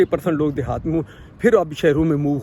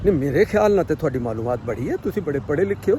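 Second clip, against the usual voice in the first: put-on a slightly lower, light Jhelumi Punjabi accent; 3 semitones lower than usual. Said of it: "Punjabi جیلمی انداز میں".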